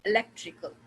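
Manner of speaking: "electrical" weighted on LEC; stress on LEC. Shown as a demonstration. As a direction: lean on the second syllable of "electrical". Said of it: "So the third is lek".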